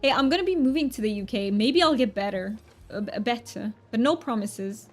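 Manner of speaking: amateur English accent put on for fun; hammed-up mock British; terrible British accent. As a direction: do a playful, imperfect British accent. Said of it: "one more time British accent".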